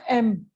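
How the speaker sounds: एम said alone, opening on a clear "eh"; एम pronounced as "em", set apart; sounding out the letter. Shown as a demonstration. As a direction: say एम separately to show its vowel start. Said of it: "ऐसे आ रही है ना".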